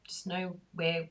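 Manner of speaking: ordinary talk, nothing marked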